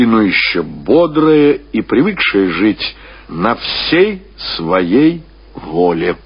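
ordinary delivery

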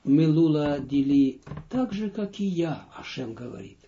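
usual speaking voice

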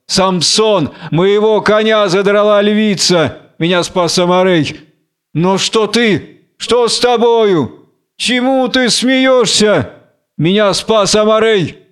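alarmed newcomer, drawing out his questions; agitated Goliath. Acted. (взволнованный Голиал, повыше)

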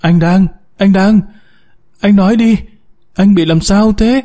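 high-pitched, urgent calling to husband; panicked. A narrator's reading. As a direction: narrate a frightened wife demanding an answer. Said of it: "Tiếng Nhàn hốt hoảng".

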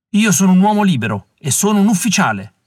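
a captive officer defying his jailer; thundering. A narrator's reading. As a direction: thunder it at the door. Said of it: "tuonò Allen".

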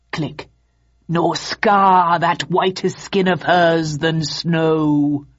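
crackly slow machine Othello; slow, loud tinny voice box; mannequin voice. Acted. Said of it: "The mannequin's crude voice box crackled".

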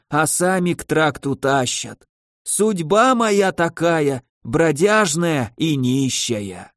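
put-on slow, weary old vagrant; drawn-out words of a frail old man. Voices the old beggar.

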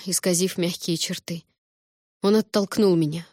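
ordinary delivery, nothing marked

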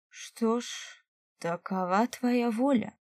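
slow echoing spirit voice; a hint of two voices at once; doubled voice. A narrator's reading. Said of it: "Его голос раздвоился".

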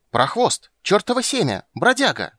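high, loud squealing abuse; shrieked insults. Acted. Blonde shrieking insults at the troubadour below. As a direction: shriek each insult at him. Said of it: "взвизгнула пухленькая блондинка".

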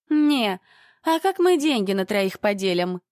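high, loud squealing protest. Acted. Dyed blonde squealing at the narrator about splitting cash. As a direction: shriek it out over the money. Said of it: "заверещала крашеная".

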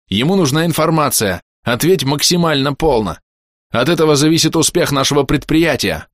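shouting at Orbit, angry orders; yelling. A narrator's reading. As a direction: bark the orders at him. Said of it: "И заорал уже на Орбита".

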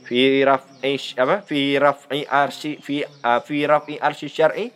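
tripping over the Arabic, restarting; stumbling attempt. Shown as a demonstration. Teacher showing students how the phrase trips the tongue. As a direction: try it quickly and fumble the words. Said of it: "Coba nanti ngomong cepet-cepet".

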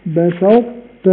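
very slow بسطت, ط's heaviness kept; drawn-out بسطت; partial merge. Shown as a demonstration. Teacher demonstrating incomplete assimilation. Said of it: "لئن بسطت".

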